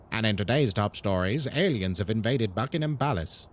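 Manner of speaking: low, formal British newsreader voice; BBC newsreader. Acted. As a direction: read it like a BBC news bulletin. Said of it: "it would probably be B B C Newsreader".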